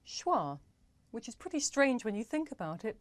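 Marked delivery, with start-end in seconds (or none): 0.1-0.6 Schwa said slowly and clearly, shwah. Shown as a demonstration. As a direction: spell out Schwa as shwah, carefully. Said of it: "It's actually called schwa".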